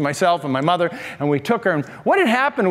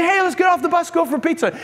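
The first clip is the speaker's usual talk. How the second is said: excited call; 9 semitones higher than usual. Retold or imitated. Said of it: "And so we say".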